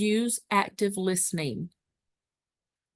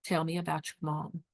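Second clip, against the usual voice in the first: gentle soft ask; 2 semitones lower, 6 dB quieter than usual. Shown as a demonstration. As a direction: gently invite her to talk about her mom, hushed. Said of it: "What I'm gonna say to 'em is".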